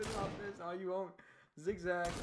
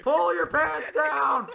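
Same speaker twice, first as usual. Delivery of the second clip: higher, louder, stretched-out yell; slow drawn-out shout; 6 semitones higher, 11 dB louder, much slower than usual. Real, not acted. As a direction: drag every word out in a yell. Repeated, slower shouted.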